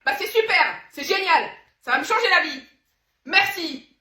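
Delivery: high, very loud over-the-top outburst; shouted thanks. Acted. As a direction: yell your gratitude as if exploding. Remerciements hurlés à son amie.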